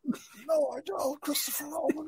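squeaky high voice. Pretend. Squeaky character voice after Cockney.

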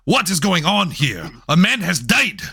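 indignant, badly faked Mexican accent; terrible Mexican accent. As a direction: protest in a hammed-up Mexican accent. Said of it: "meant to be a terrible Mexican accent".

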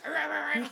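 high, loud imitated fight noises; imitated animal noises. Retelling the noises she does, high loud imitation. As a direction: recreate the noises in quick repeated bursts. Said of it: "she does the noises".

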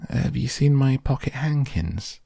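high-pitched Lucy asking a stranger; little girl's question. A narrator's reading. Lucy asks after her handkerchiefs.

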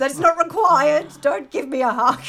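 emphatic no-hug protest; indignant refusal. Retold or imitated. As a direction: push the hug away with your voice. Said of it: "I said".

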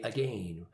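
AGAIN said to rhyme with rain; British-style second vowel in AGAIN; British pronunciation. Retold or imitated. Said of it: "We're going to say".

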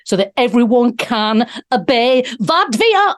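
a hammed-up villain speech, deliberate; a poor mock German accent, barely changed; dodgy Klaus Schwab impression. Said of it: "definitely did a very, very dodgy".

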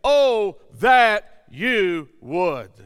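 loud, slow, drawn-out plea; crying out to God. Acted. Preacher showing how we call out to God, crying out. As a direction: cry it out, stretching each word. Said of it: "cry out to God".

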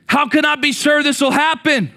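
lightly voiced old man, slow, in disbelief; a hint of a tired old priest who doubts; doubting old Zechariah. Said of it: "That's his response".

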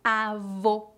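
avô with closed O, /o/ like "oh"; stressed closed ô at the end of avô. Shown as a demonstration. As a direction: say avô with lips rounded and the mouth nearly closed. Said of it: "o O fechado, como em".

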